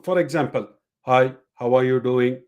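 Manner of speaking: monotone, flat to the end; flat robotic monotone. Shown as a demonstration. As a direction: say it like a robot, no tune at all. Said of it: "Like a robot".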